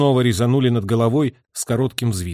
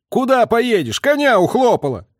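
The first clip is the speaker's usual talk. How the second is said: much higher, louder angry reply; gruff retort; 11 semitones higher, 5 dB louder than usual. A narrator's reading. Driver answering messenger, gruff retort. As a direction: snap back at him.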